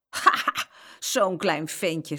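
mocking laugh, then slow sneer. A narrator's reading. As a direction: laugh at the little boy, then draw it out. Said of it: "zei Frans lachend".

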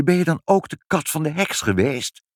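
high-pitched, astonished question; child exclaiming. A narrator's reading. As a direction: ask like an amazed child. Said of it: "riep Ibbeltje". (verbaasd uitroepend kind)

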